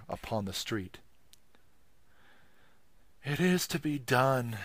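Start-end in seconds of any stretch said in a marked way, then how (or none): 3.2-4.6 desperate. Acted. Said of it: "he said to himself desperately".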